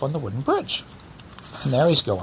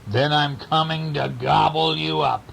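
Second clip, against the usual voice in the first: troll threat; 3 semitones higher than usual. Acted.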